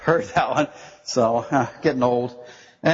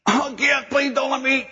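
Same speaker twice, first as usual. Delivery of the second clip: mock plea; 12 semitones higher than usual. Peter's mock plea to God.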